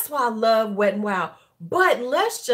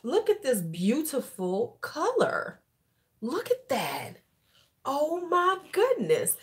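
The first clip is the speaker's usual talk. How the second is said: gushing over a color; 5 semitones higher, slower than usual. Retold or imitated. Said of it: "I was like".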